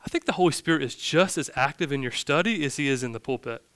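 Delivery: gently softened, mild loving correction; lovingly. Retold or imitated. Pastor correcting colleagues at the roundtable, lovingly. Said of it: "he just lovingly said".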